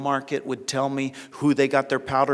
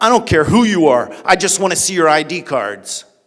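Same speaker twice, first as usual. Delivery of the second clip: loud, booming put-on growl; 3 semitones higher, 11 dB louder than usual. Retelling what a man at a roadblock said to Pastor Soraya, retelling a growl. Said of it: "the guy growled".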